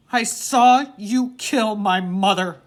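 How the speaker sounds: each word slow and forceful; slow, loud accusation. A narrator's reading. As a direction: make him hear every word. Boy confronts father.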